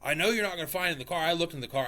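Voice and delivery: wife insisting it's not in the car, mildly mocking; mock irritated wife. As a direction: mimic her stubborn certainty, fast. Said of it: "she's like".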